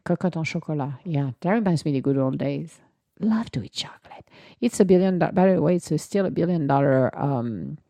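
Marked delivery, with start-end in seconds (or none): 3.2-4.3 whisper. Acted. Whispered aside about chocolate.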